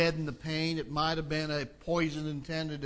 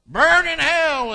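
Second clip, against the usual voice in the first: very loud, high, drawn-out cry; slow, high-pitched damning yell; angry slogan shout; 9 semitones higher, 12 dB louder, slower than usual. Acted. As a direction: bellow it like a protest chant. Acting out hostile protest signs.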